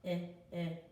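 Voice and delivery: i as in pig, clipped and short; short i sound. Shown as a demonstration. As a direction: repeat the short i. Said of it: "It's the short".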